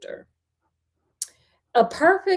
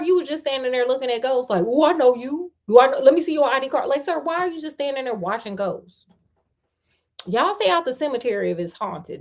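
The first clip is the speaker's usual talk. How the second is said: sassy commentary; 3 semitones higher, faster than usual. Pretend. Reader's mock commentary.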